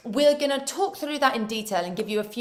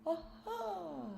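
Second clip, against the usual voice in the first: projected ah; 5 dB louder, much slower than usual. Shown as a demonstration. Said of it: "as far as your laptop screen".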